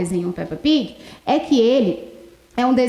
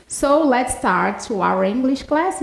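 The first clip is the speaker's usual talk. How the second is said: slow model English; much slower than usual. Shown as a demonstration. Teacher models English slowly.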